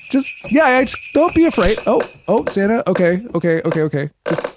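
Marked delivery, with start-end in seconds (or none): 1.9-4.5 worried. Acted. Watching Santa slip, worried.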